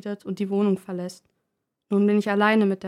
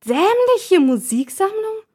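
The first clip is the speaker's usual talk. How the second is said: much higher, slow, loud offended echo; lurking repeat; 11 semitones higher, 7 dB louder, slower than usual. Acted. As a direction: repeat it slowly, bristling. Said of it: "wiederholt sie lauernd". (lauernd, viel höher, langsam und laut)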